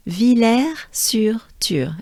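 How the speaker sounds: extra-French "Villers-sur-Thur", slow with a falling end. Shown as a demonstration. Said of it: "if you want to sound even more French".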